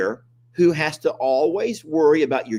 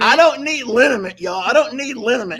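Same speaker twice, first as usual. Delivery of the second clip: high, loud indignant refusal; indignant protest; 10 semitones higher, 4 dB louder than usual. Real, not acted. Husband refusing wife's horse liniment, indignant high protest. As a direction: push back, offended and loud.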